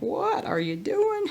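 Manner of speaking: slow, high squeaky bird voice; voicing the birds. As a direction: play the birds, high and drawn out. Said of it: "They're like".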